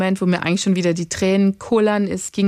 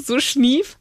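sniffle; 5 semitones higher than usual. Shown as a demonstration. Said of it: "ich versuch's dann halt voll leise zu machen".

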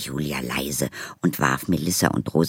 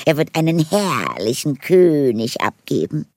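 gushing elf; 10 semitones higher, 3 dB louder than usual. Acted. Elf praises prince.

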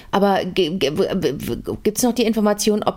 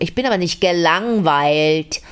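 slow, drawn-out bored tone; bored drawl; slower than usual. Shown as a demonstration. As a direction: stretch it out like you couldn't care less. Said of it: "so wahnsinnig arrogant und vor allem so gelangweilt". (gelangweilt gedehnt)

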